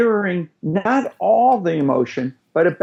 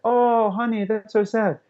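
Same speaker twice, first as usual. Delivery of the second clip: soothing toddlerese; 6 semitones higher than usual. Shown as a demonstration. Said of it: "they're a little upset".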